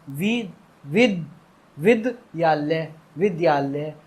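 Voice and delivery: वि- विद- विद्यालय sounded out with a full द; full da reading. Retold or imitated. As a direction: stumble through it like a kid sounding out. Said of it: "इसे पूरा द पढ़ने लगते हैं वो". (पूरा द पढ़ते हुए उच्चारण)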